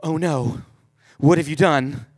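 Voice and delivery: hammed-up motherly alarm; freaking out. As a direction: fire off alarmed questions, building in volume. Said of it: "she is all freaking out".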